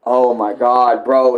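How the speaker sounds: ordinary delivery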